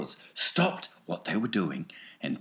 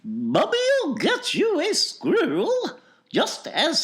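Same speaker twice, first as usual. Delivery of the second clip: soothing; 9 dB louder, slower than usual. Acted. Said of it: "said soothingly".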